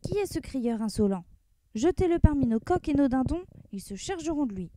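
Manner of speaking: mildly stern sultan; a touch of royal severity; sultan, lightly stern ruler. Acted. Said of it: "déclara d'un ton sévère".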